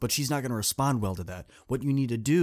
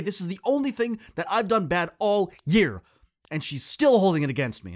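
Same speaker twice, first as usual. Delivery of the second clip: starts upset, climbs higher and louder; building indignation; 4 semitones higher, 4 dB louder than usual. Retold or imitated. Coach voicing the student's rising rant about her teacher, higher and louder. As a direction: let the kid's grievance snowball.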